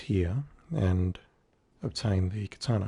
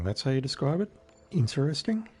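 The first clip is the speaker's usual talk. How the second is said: incredulous; 6 semitones higher than usual. Real, not acted. Mocking NPC's understatement.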